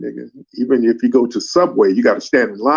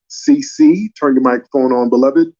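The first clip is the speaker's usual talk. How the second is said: calling out; 4 dB louder than usual. Real, not acted. Calling a panelist to unmute.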